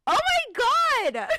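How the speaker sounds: loud, high, drawn-out cry of realization; emotional outburst. Real, not acted. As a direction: blurt it out loudly, breaking into a laugh. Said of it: "make me emotional".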